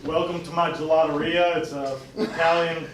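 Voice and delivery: put-on Italian accent. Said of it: "I really like your Italian accent".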